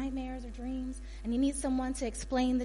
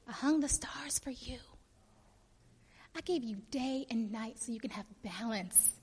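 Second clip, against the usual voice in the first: soft, hushed tenderness; softly spoken, intimate appeal; tender God; 9 dB quieter than usual. Acted. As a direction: play God gently reminding a loved one. Acts God's tender plea.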